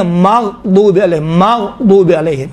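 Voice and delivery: مغضوب drawn out, غ still and unbounced; teacher repeating مغضوب with a smooth, resting غ; correct pronunciation demo. Shown as a demonstration. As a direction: say مغضوب slowly with no echo after غ. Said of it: "مغ نہیں ہے".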